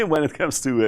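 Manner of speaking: chuckling through the words; laughing. Real, not acted. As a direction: laugh while saying it. Joke about crypto on the run.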